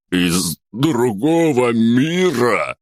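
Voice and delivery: choked, breathless exclamation, slow and loud; gasping blurt. A narrator's reading. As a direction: gasp it out after a coughing fit. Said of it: "задыхаясь, выпалил".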